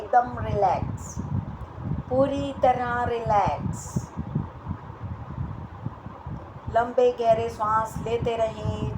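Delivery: yoga teacher's meditation voice, long pauses; guided relaxation. Acted. Leads breathing and relaxation meditation.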